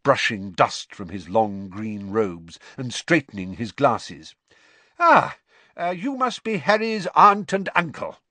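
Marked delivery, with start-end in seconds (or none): 5.0-8.2 lightly higher, loud, cheerful greeting; a flustered, kindly wizard meeting Muggles; friendly wizard father. A narrator's reading. Mister Weasley voiced.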